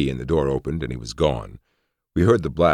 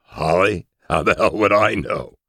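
giggly; 4 semitones higher than usual. A narrator's reading. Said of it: "then giggled wildly".

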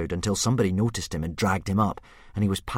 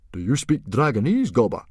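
surprised; 5 semitones higher, 6 dB louder than usual. A narrator's reading. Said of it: "asked Stoic in surprise".

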